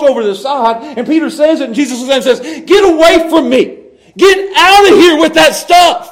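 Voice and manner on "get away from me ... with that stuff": higher, louder, slowed shout of rebuke; hard rebuke. Retold or imitated. Jesus turning on Peter, angry shouted rebuke. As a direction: throw him out firmly. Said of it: "He's being hard on him here".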